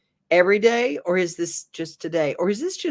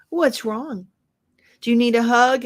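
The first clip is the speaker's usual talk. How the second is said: put-on light, higher voice of a small girl asking kindly; little girl voice; 7 semitones higher, 5 dB louder than usual. Retelling a reel, a little girl asks the pouting boy if he needs a hug, gently. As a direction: voice a three-year-old girl checking on a friend.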